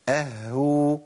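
"أهو" with a long held ه, then long oo; doubled haa with damma. Shown as a demonstration. Teacher models the doubled case, haa held. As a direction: linger on the h inside "أهو". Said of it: "اللي هو حالة تجديد".

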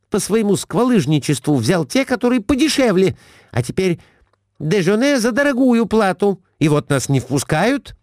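high, reproachful wife; Глафира, high. A narrator's reading. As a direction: scold him up high. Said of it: "сказала Глафира Семёновна мужу". (высокий упрёк жены мужу)

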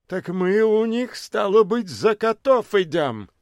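выше и с вызовом; бомж удивлён и задирается; возмущённый бомж. A narrator's reading. Бомж возмущённо спрашивает собратьев. (бомж в шинельке взывает к собратьям, возмущённо)

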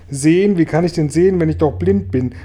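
high, loud, indignant questions; exasperated cry. A narrator's reading. Blind Regenwurm to James on being asked to see, exasperated cry. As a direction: burst out in exasperation. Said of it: "schrie der arme Regenwurm".

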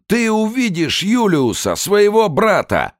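shrill, slow furious shout; screaming threat. Acted. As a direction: hurl it at the interrogator.

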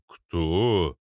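slow, drawn-out question; puzzled giant. Acted. Arnold does not understand her, slow and puzzled. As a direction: stretch the word, baffled.

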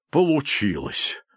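high, drawn-out cry of amazement; exclaim, scarcely believing it; disbelieving exclamation. A narrator's reading. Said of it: "воскликнул Гомер, словно не веря". (изумлённый, недоверчивый возглас)

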